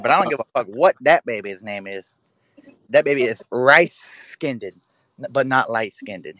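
lightly voiced comedian impression, punching key words; Cat Williams. Man in jail rejecting the baby, lightly voiced impression. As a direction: imitate a stand-up comic disputing paternity. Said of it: "I could do Cat Williams".

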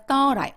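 like "또라이" but with open "어" in "thought I"; open "어" vowel. Shown as a demonstration. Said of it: "어 발음처럼". ("thought I"를 "오" 말고 "어" 모음으로 이어서)

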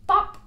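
sudden high, loud pop; loud popping noise. Acted. Reading out a comic-book sound effect, loud pop. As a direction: burst it out short and high.

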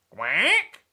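loud questioning quack; duck's query, rising at the end; duck asking. Acted. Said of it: "asked the duck".

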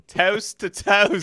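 slow, drawn-out anchor delivery; news anchor voice. Retold or imitated. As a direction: stretch it like a TV newscaster. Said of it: "news reporter anchor voice".

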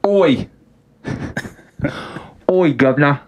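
high, hammed-up cockney British accent; mock cockney British greeting. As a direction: play a cheeky London bloke. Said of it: "I like your British accent".

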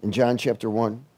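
blocked nose, stuffed up; nose pinched. Real, not acted. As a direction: talk like a clothespin is on your nose. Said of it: "I might sound like I have a clothespin on my nose".

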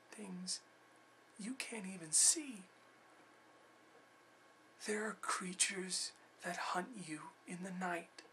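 hushed, high, near-whispered dread; haunted warning. Acted. Survivor telling of creatures in the night, haunted whisper. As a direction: whisper it as if the creatures could hear.

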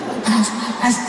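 "putas marcas" breaking into a laugh; laughing through it. Pretend. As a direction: lose the villain voice to giggles. Villain voice collapsing into laughter.

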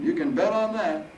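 put-on high, loud old man, amused; chuckling bravado. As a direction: crow it cheekily as Harold. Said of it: "Harold chuckled".

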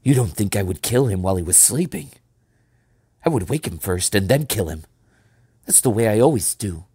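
lively, indignant protest; affronted boyish boasting. A narrator's reading. Peter defending his honour to John, indignantly. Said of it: "Peter spoke indignantly".

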